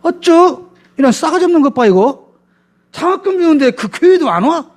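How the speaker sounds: put-on high, indignant scolding of an ungrateful kid; shrill-free high-pitched huffy busybody; mocking church elder lady. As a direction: squeal out the elder's outrage at the no-show student. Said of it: "그러면 권사님이".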